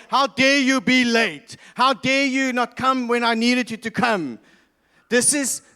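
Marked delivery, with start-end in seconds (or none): 0.1-4.4 mock angry. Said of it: "angry at God and saying".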